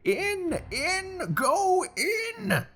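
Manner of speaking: very high, loud barked commands; impatient shouting. Acted. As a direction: drive them in with furious cries. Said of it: "he shouted and cursed".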